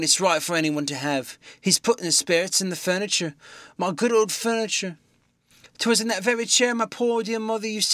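put-on a distraught old landlady. Mrs Hall's frightened rant.

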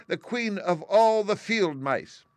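high, loud, slow squeaky queen; proud mouse queen. A narrator's reading. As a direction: announce it like a tiny proud queen. Mouse queen declares herself.

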